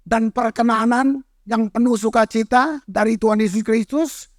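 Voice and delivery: scripture reading. Acted. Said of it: "The Passion Play".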